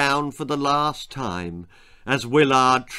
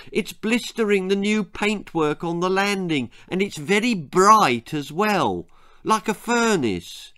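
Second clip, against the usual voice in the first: mother's voice; 5 semitones higher than usual. Acted. Mother complains about the heat.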